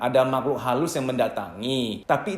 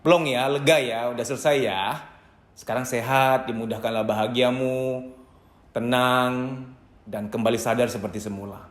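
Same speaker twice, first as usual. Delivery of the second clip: calm soothing; 4 semitones lower than usual. Shown as a demonstration. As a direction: settle them gently, like a witness to their relief. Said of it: "Anda ngomong begini".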